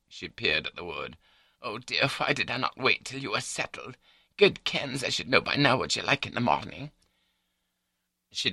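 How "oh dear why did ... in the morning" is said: high-pitched wife fretting over a spill; fussing wife. A narrator's reading. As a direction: fuss and cluck, pitched up. Voices the wife in story.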